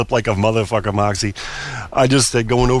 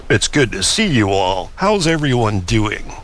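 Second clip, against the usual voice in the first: father's voice. Retold or imitated. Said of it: "the father sounds like this".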